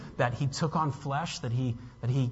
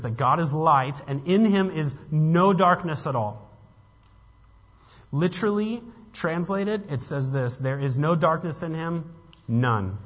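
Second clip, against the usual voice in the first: louder, higher-pitched proclamation of scripture; emphatic preaching; 5 semitones higher, 7 dB louder than usual. Real, not acted. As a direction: drive the verse home from the pulpit. Preaches verse with raised force.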